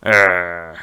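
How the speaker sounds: low, drawn-out mock growl; brooding angry growl. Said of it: "brooding and angry".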